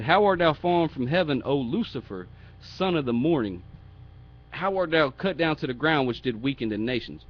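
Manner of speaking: loud, declaimed mock lament; sarcasm. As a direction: declaim scripture with a touch of mockery. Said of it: "It's a sarcasm".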